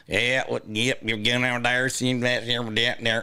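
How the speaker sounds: mumbled mock Southern accent; hammed-up Southern drawl, words run together. Shown as a demonstration. Showing a voiceover reel option, mock Southern accent. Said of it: "do someone from the South".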